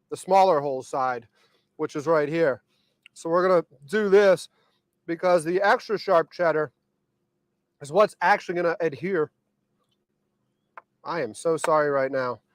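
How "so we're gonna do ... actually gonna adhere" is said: mouth full. Real, not acted. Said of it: "I should not talk with my mouth full".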